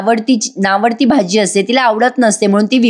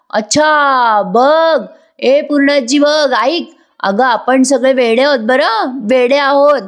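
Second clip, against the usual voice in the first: higher, slow, drawn-out mock agreement; sarcastic mockery; 4 semitones higher, slower than usual. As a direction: sneer it slowly, as if humouring a fool. Priya mocks Sayali at dinner. (Priya सायलीची उंच, सावकाश स्वरात उपहासाने टिंगल करते)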